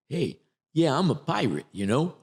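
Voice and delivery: lightly put-on Bronx accent; Bronx pirate. Shown as a demonstration. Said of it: "like I'm from the Bronx".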